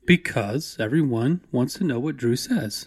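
slow, measured presenter delivery; lightly put-on cultured presentation tone; matched cultured tone. Co-host matches Drew's presentation, cultured tone. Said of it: "You matched my tone there".

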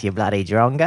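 broad mock Australian insult; Australian woman assistant. Phone insults its forgetful owner, mock Australian woman. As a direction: toss it off as a comic Australian. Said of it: "That's what mine says".

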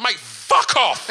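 slow, tired dismissal; slow exhausted telling off; weary brush-off. Retold or imitated. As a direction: brush off the pestering fan slowly. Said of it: "he just went".

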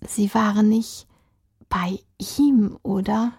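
whispered, suspicious question. Acted. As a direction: hush it, full of suspicion. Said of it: "die Ärztin beschlich einen Verdacht".

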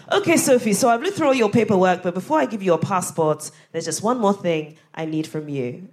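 lightly voiced Ghanaian official accent; a hint of a Ghanaian clerk's accent. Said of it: "I'm about to do a Ghanaian accent".

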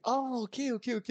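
surprise aiguë. Retold or imitated. La caissière cède.

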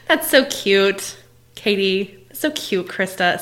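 affectionate teasing through a laugh; laughing fond self-talk. Shown as a demonstration. Coach showing kind self-talk, laughing fondly. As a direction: chuckle it out like cooing at a child. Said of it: "if we just talk to ourselves like this".

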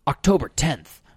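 slowing, measured charge-reading; vegan police. Acted. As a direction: read out an offence officiously, slowing down. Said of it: "And then he goes like".

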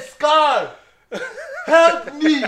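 high, loud melodramatic plea; imitated Lion King cry. Dad quoting son's movie line, hammed-up desperate shout. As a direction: shout for help in mock desperation. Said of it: "No, it was Scar".

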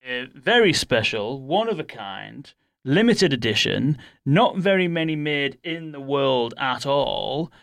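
slow, drawn-out gift unveiling; mock grand reveal. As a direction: present it like a rare prize, lingering on each phrase.

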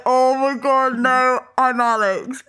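drawn-out mock-mortified correction; hammed-up embarrassment, dragging out the words. Correcting herself after giving the other woman's name, mock mortified.

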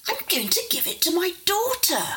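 voiced father. Father quoted in story.

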